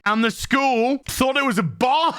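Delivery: high, dissolving into laughter on bomb; breaking into laughter. Real, not acted. Reviewer revealing the school's bomb mistake, cracking up. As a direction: start telling it, then collapse laughing on the last word.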